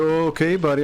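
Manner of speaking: mocking, feigned ignorance; playing clueless. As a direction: imitate someone acting like they know nothing. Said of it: "he plays like he doesn't know anything".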